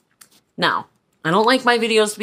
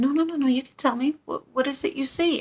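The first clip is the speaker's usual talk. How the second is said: put-on coaxing old lady; 7 semitones higher than usual.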